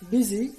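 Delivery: "busy" with the S voiced as Z. Shown as a demonstration. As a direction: say "busy" with a buzzing z in the middle. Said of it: "S is written as Z".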